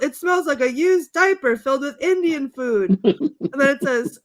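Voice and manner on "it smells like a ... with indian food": higher, slightly raised retold yell; imitated crowd outcry; mock yelling. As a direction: call it out in mock disgust. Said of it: "someone yells".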